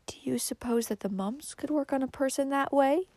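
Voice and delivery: soft, high, whispery wail. A narrator's reading. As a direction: wail it weakly and worriedly. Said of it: "wailed Cousin Stickles".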